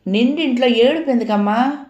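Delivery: a hint of flustered worry; anxious question. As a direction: ask in alarm about the crying. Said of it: "కంగారుగా అడిగింది".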